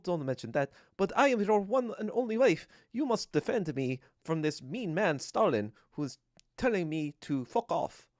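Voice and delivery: put-on accented voice of an aggrieved wife; mock Krupskaya. Wife demanding that Lenin defend her, mock-indignant accented voice. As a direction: plead your case with hammy indignation. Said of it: "Krupskaya is like a dumb bitch".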